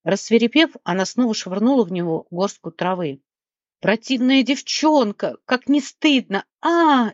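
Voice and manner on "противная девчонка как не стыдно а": slow, high, wailing yell; louder wailing. A narrator's reading. Gnome wailing at Leona, slow and high. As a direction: howl the accusation up to a cry. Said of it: "ещё громче завопил гном".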